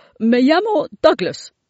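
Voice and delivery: high-pitched, loud, babbling dragon voice. A dragon introducing himself to someone who found him in a shed, babbling. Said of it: "babbled El Dragón".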